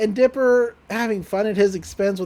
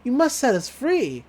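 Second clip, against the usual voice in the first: higher, pleading put-on toy voice; the duck voice; 4 semitones higher than usual. Toy duck begging for freedom, higher put-on voice. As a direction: plead as a mock-solemn inflatable duck. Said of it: "they're doing the, the voice".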